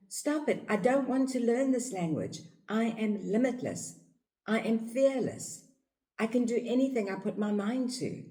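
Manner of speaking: put-on high, defiant child voice; defiant toddler. Toddler refusing the parents' rules, high and defiant. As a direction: protest like a little child. Child voicing tantrum meaning.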